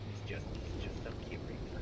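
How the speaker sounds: unvoiced fond whisper. Real, not acted. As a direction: whisper it like it's adorable. Cooing over a tiny figure.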